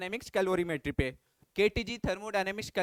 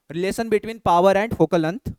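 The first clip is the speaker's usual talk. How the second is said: very slow, word by word, louder; slow dictation; 11 dB louder, much slower than usual. Real, not acted. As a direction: spell it out so students note it. Teacher dictating key topic. (धीरे-धीरे, शब्द-शब्द बोलकर लिखवाना)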